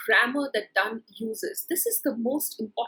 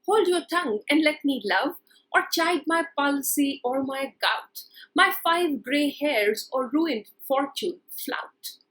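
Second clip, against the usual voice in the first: slow, measured recitation of verse; poem reading; 2 semitones higher, slower than usual. Shown as a demonstration. Teacher reading Donne's verse to students, slow recitation. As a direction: read the lines slowly like a poem. Reads poem opening aloud.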